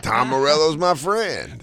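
slow, cocky dim boast; himbo voice. Retold or imitated. Friend imitating a himbo boasting, slow and proud. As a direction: brag like a clueless hunk. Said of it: "Himbos are always like".

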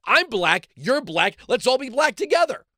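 lightly acted eager solidarity, lifting at the end; mock naive camaraderie. Imagining a newcomer greeting locals in Africa, mock naive camaraderie. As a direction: play up a naive, let's-all-bond cheer.

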